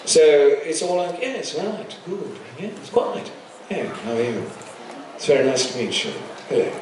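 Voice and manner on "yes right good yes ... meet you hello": softer clipped received pronunciation; a lightly voiced posh English uncle; quiet upper-class English accent, lightly done; posh Englishman. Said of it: "a parody of a posh Englishman".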